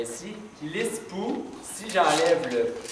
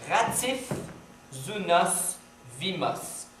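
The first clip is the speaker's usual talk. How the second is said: chaque mot posé seul avec une pause; détache zounos, ratif, roukif un par un; mots détachés; much slower than usual. Shown as a demonstration. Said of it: "un qui rime pas". (mots lus lentement et détachés)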